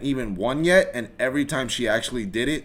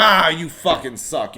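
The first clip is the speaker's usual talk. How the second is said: slow, higher, louder mild frustrated groan; mock fan yell; 6 semitones higher, 7 dB louder than usual. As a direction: grumble at the team like a fan at home. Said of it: "I'll be like".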